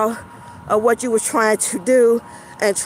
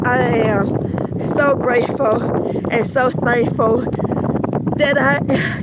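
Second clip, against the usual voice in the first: winded, talking between breaths; slower than usual. Real, not acted. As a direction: talk while catching your breath. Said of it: "you can tell I'm out of breath".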